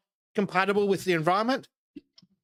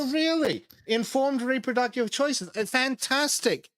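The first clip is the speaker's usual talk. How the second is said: sarcastic; 7 semitones higher than usual. Real, not acted. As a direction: sneer it with fake delight. Mocking the group's mission statement.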